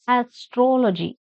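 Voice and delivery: "Astrology" with the weight on "trol"; stress on troll. Shown as a demonstration. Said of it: "Stress on troll".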